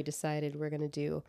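soft whispered aside. Real, not acted. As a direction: drop to a whisper, confiding. Confiding aside about episode theme.

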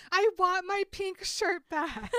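high, loud mock yell; mock scream. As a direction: yell it out the car window, hammed up. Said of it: "Damien just screams at her".

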